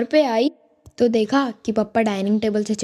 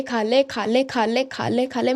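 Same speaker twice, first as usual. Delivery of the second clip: nagging mom. Retold or imitated. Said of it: "mummy शुरू हो गई".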